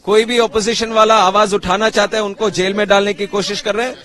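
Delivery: fast impassioned speech. Real, not acted. Politician speaks fast at protest.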